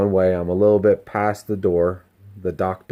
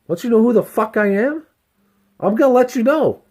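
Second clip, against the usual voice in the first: high-pitched, boastful challenge; puffed-up ego; 14 semitones higher, 3 dB louder than usual. Acted. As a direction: play the ego demanding respect. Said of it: "When your ego is talking like that".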